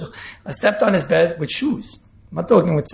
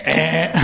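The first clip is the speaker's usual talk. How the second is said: low buzzer noise, "ehhh"; imitated buzzer; 4 semitones lower than usual. The rabbi's buzzer suddenly cutting in, a mimicked drone. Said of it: "all of a sudden here".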